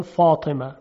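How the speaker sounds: فاطمه with a dark, backed first vowel; Iraqi heavy fa. Retold or imitated. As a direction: say فاطمه with a heavy "faw" opening.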